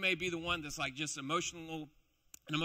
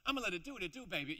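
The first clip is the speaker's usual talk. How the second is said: a soul singer's voice; 3 semitones higher, much faster than usual. Acted. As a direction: play it smooth like a soul singer. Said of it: "I picture it like it's a soul singer".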